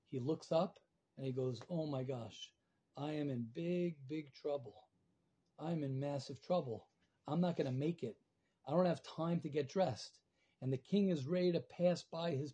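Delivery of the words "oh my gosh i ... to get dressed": low, subdued dread; quiet dismay. Acted. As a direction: voice sinks, softer and lower, as trouble dawns. Man realises he is in trouble.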